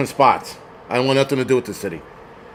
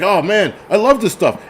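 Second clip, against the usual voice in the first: imitating a friend; 6 semitones higher than usual. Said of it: "he's like".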